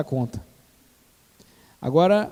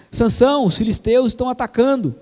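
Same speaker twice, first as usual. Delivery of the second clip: raised, urgent warning call; alarmed call; 4 semitones higher, 4 dB louder than usual. Acted. Dalila calls out Samson alarm.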